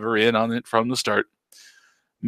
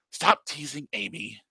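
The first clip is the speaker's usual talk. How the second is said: raspy woman voice; 3 semitones higher, 6 dB quieter than usual. Acted. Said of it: "we're gonna go with that voice for now".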